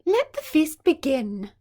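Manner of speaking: loud, high royal announcement; a queen opening the feast, ringing out; announcing. Acted. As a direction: proclaim it to the whole hall. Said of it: "announced the Queen".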